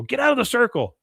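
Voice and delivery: high, loud heckle; mock crowd shout. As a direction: call out like an annoyed crowd. Crowd orders Hank out, retold.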